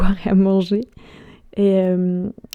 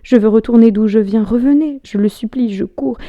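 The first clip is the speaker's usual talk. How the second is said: raised, urgent stage cry; louder, pleading outburst climbing in pitch; 3 semitones higher, 7 dB louder than usual. Acted. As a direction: call desperately after someone leaving. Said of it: "et je crie".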